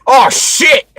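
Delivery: high mock yelp; startled exclamation. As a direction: blurt it out, startled. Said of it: "this little black kid just".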